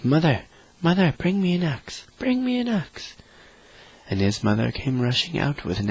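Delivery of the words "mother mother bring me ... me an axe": high, loud call for help, rising each time. A narrator's reading. Jack calls his mother from the beanstalk, loud and high. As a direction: yell for the axe, more urgent with each line. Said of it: "so he called out".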